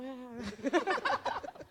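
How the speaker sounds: high rolling laugh; real high laughter. Real, not acted. Laughing at anecdote.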